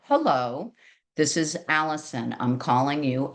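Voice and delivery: match a gruff caller calmly. Shown as a demonstration. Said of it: "maybe a little bit lower".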